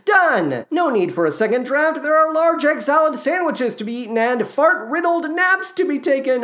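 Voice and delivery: high, gleeful proclamation; hammed-up triumph in a high voice; mock self-satisfied writer. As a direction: crow it like a job triumphantly dashed off. Voices the lazy writer finishing up.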